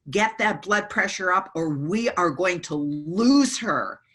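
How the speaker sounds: slow, mildly gruff doctor's order. Retold or imitated. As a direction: lightly imitate a gruff, urgent doctor. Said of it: "in this really gruff voice".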